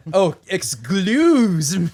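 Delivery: slow words through giggles; laughing apology. Real, not acted. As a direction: apologise while cracking up.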